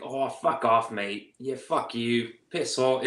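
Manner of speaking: casual Aussie cursing; Aussie accent. Shown as a demonstration. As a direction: swear like an Australian mate. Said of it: "an Aussie accent will sort of start to take effect".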